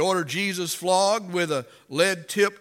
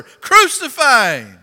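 high, very loud, drawn-out mob roar; roaring crowd; 8 semitones higher, 14 dB louder, slower than usual. Acted. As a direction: roar it out, louder than ever. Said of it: "the crowd only roared even louder".

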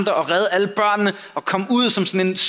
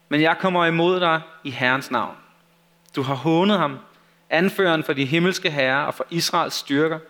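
expressive read-aloud with lively dialogue; measured narration, livelier on the quotes; Bible story narration. A narrator's reading.

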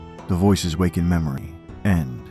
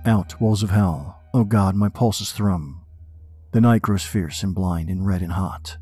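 dramatic poem reading; 3 semitones higher than usual. Acted. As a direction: read it like a haunted man.

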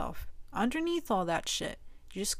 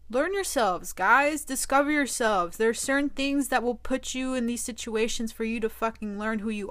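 louder, fired-up rallying cry; defiant pep talk; 3 semitones higher, 3 dB louder than usual. Real, not acted. Urging girls out there to be tough, loud and defiant.

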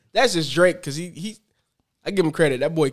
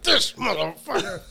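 laughing disbelief; 7 semitones higher, 5 dB quieter, slower than usual. Retold or imitated. Retold reaction, slow, laughing.

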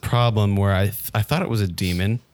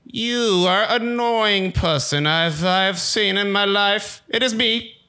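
higher, very slow holy voice; high slow Jesus voice; 10 semitones higher, much slower than usual. Pretend. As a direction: speak as a divine figure, slowly. Summoned Jesus speaks.

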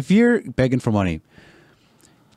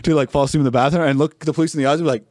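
high, laughing, shouting disbelief; telling a friend about the shameless sleeper, high laughing shout; incredulous rant; 5 semitones higher than usual. Real, not acted. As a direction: exclaim in amazement through laughter.

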